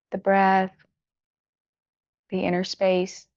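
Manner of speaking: gentle guiding with long pauses between phrases; guided meditation. Acted. Teacher settling students into their bodies, unhurried guided meditation. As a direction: ease them inward phrase by phrase, unhurried.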